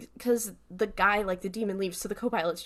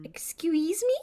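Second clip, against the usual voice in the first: high, whispery incredulous question; imitated breathy "excuse me?"; retold whispered disbelief; 8 semitones higher than usual. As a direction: whisper it like someone taken aback. Co-host imitates Sam's taken-aback reply.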